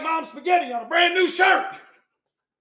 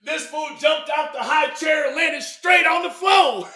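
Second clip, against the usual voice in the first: shouted story; 3 semitones higher, 3 dB louder than usual. Real, not acted. Telling funny fall, shouting.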